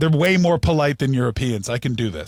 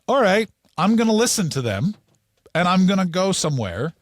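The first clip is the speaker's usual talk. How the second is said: resolved; 3 semitones higher than usual. Retold or imitated. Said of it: "So I just went".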